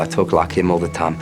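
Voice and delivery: mock South African accent; South African friend. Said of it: "You've nailed the accent".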